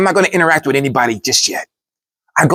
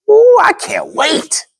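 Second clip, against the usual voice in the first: excited; much slower than usual. Retold or imitated. Retold excited inner thought.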